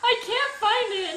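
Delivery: high squealed panic, half laughing; freaking out. Retold or imitated. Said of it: "freaking out".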